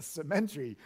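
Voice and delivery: "cemetery" as se-MEN-tree, Filipino style, through a laugh; Filipino-accented "cemetery", stressed on MEN. Retold or imitated. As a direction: imitate Filipino second-syllable stress on "cemetery". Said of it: "they say cemetery".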